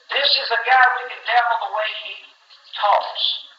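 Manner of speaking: high-pitched retold accusation; acted accuser, voice lifted; accusing bystander. Another bystander accuses Peter.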